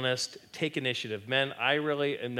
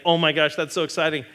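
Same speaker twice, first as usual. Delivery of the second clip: mock thrilled gush; 3 semitones higher, 5 dB louder, faster than usual. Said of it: "it's like".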